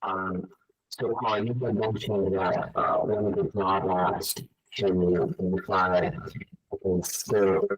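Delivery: bubbly, garbled bad connection; underwater. Real, not acted. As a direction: voice gurgling through a broken line. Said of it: "It, it sounds like you're underwater".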